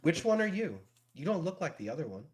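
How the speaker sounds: put-on high, puzzled kid voice; child character. Game master voices the curious child.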